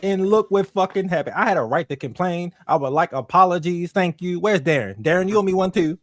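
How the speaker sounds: high, loud, fired-up complaining; worked-up rant. Real, not acted. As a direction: vent it like you were proven right. Heated rant about cancelled show.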